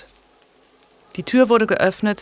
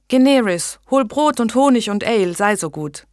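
exuberant; 4 semitones higher, 4 dB louder than usual. Acted. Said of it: "selbst von Übermut erfüllt".

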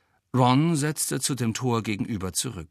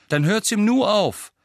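urging; 10 semitones higher, 5 dB louder than usual. A narrator's reading. Fred calls out a remedy.

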